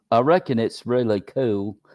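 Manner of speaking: loud, terrible put-on Australian accent. Asked to read a line for a UFO show: terrible Australian accent. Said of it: "can you read this if you don't mind, Australian? ... that's terrible Australian accent".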